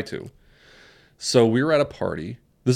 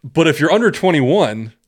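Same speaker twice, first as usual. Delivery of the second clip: slow, louder officer's warning; warning cop; 6 semitones higher, 5 dB louder, slower than usual. Retold or imitated. Imitating a cop warning underage partygoers, slow and pointed. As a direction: spell out the condition for the crowd.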